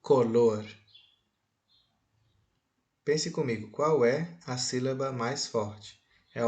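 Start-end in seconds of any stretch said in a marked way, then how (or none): 0.0-0.6 "Color" said alone, leaning on the final "lor"; stress on final syllable. Shown as a demonstration. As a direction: show the word "Color" with its last syllable strongest. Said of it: "Veja a pronúncia".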